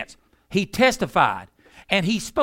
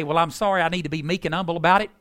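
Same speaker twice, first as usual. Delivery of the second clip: mock apology; 3 semitones lower, faster than usual. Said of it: "He didn't say".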